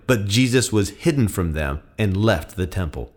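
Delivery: firm, emphatic Bible narration with voiced dialogue; dramatic scripture reading. A narrator's reading. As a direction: read the gospel aloud with conviction.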